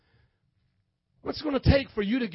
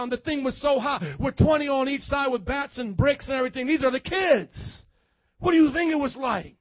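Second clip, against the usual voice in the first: preaching at full force. Acted. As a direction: hammer each question harder at the crowd. Preaching builds to shouting.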